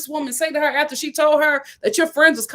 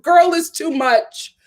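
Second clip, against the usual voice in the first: exasperated cry; 3 semitones higher, slower than usual. Real, not acted. Pleading with cast member.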